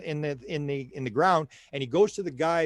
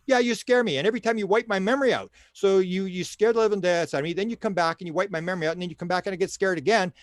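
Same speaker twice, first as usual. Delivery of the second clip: higher, worked-up retold protest; acted indignant complaint; 4 semitones higher than usual. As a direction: imitate her telling him off. Acting out her complaint to alien.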